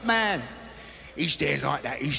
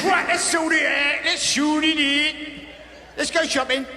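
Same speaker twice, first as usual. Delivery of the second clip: lightly voiced Greg; 6 semitones higher than usual. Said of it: "He says".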